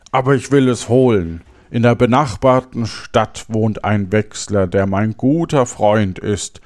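storyteller giving each phrase its weight; fairy-tale narration. Acted. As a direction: read it aloud with lively emphasis and clear diction. Reads a fairy tale aloud. (Märchen lebendig vorlesen)

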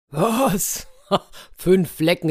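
high, astonished outburst with a laugh; incredulous. A narrator's reading. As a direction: scoff in disbelief at what you heard. Elephant scoffs at the count.

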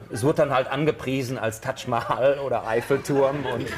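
laughing through the words; chuckling as he tells it. Real, not acted. Laughing while telling the anecdote. (lachend erzählt)

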